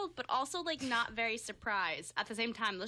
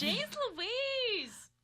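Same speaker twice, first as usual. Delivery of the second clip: higher parrot squawk; 9 semitones higher than usual. Retold or imitated. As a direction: squawk it high. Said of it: "Just get a little more like".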